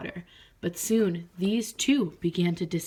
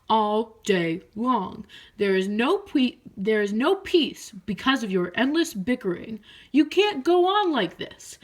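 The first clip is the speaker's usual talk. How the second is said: put-on annoyed old toad; stern toad; 3 semitones higher, 4 dB louder than usual. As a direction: scold the noisy frogs. Toad scolds frogs.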